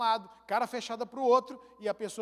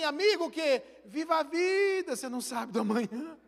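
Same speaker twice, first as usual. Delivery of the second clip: mock doctor's advice; 4 semitones higher than usual. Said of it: "o médico só diz assim".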